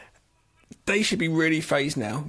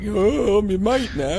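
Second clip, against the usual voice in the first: caveman voice; 5 dB louder, slower than usual. Retold or imitated. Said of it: "becomes their sort of like".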